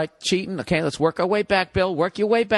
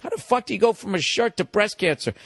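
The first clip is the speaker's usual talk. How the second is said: shocked disbelief; 5 semitones higher than usual. Retold or imitated. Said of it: "and you're like".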